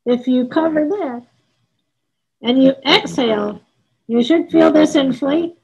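normal talking voice

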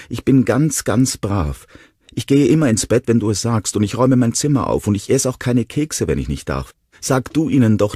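put-on high, pleading little-boy voice; urgent, piping promises from a small boy; whimpering child. A narrator's reading. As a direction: beg Dad earnestly in a high child's voice. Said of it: "wimmerte Jonah".

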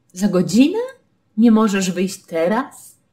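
teraz pushed to the end with a rising, surprised question; stress on teraz. Shown as a demonstration. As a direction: land on teraz, a touch indignant. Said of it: "kiedy chcesz bardzo podkreślić teraz".

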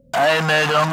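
crackling radio announcer; fading shortwave radio. Acted. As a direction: read it through static.

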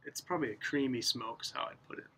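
speaking around a pipe stem; talking with pipe in mouth. Real, not acted. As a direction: lips gripping pipe while talking. Seen 0: Pipe stem held between lips throughout all labelled frames.

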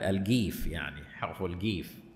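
الجيف with a hard g, as in /alɡif/; softly demonstrated gaf sound; sound between qaf and kaf. Shown as a demonstration. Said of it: "بعضهم يقول هي ال".

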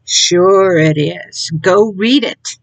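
ordinary talk, nothing marked

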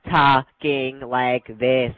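slow, stretched-out mimicry; mock operator machine. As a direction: drag each word like an automated operator. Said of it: "fucking operator machine".

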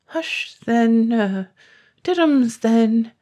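put-on hushing a baby. A narrator's reading. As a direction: coo at the baby to soothe it. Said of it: "tried to quiet the baby".

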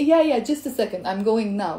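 sarcastic agreement. Acted. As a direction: brush off a favor while agreeing. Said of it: "the sarcastic way of saying".

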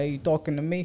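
lightly imitated Italian New Yorker; New York Italian accent. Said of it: "Like the Italian one".

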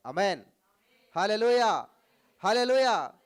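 loud, high hallelujah; shouted hallelujah. Real, not acted. Preacher rousing the congregation with a loud hallelujah shout. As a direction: belt it to the crowd.

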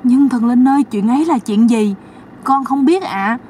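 mock innocent questioning; naive high pleading. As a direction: play dumb with the spirit. Sister-in-law asks innocently.

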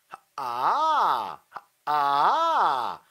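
slow 하, 아 pulled up a few notes; pulled pitch. Shown as a demonstration. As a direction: pull the pitch up a little. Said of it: "두세 음 정도만 당기는 거야".

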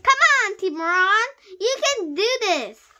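high, loud cheer; yelling encouragement. A narrator's reading. Classmate rooting for the boy, yelling encouragement. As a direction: cheer on a fighter from the sidelines. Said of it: "yelled Jessie".

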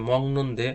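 "মংনন্দে" with an ng before the n; correct pronunciation. Shown as a demonstration. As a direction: say "মংনন্দে" with nasal ং, no k. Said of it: "আমি কিভাবে উচ্চারণ করছি".

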